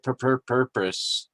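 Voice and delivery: stumbling over "purpose"; accidental stutter while reading aloud. Real, not acted. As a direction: trip on the first syllable of "purpose", repeating it. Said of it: "I just stuttered".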